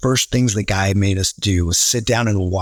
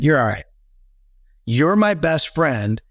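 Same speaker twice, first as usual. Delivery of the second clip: You're my best friend, slow and a bit higher; drawn-out mock sincerity; 4 semitones higher, slower than usual. Daniel-san gushing to his teacher, slow and higher. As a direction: stretch it out like a gushing kid. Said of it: "He said".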